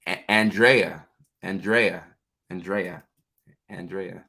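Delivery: Andrea repeated as ann-DRAY-uh, fading away; practicing pronunciation. Real, not acted. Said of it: "I just had to go back to that".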